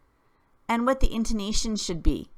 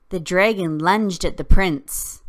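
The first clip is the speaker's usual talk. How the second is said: louder, startled read; surprise and fear; 6 dB louder than usual. Shown as a demonstration. Teacher acting out a story line with surprise and fear. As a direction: gasp it out like something just happened. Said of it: "Surprise and fear".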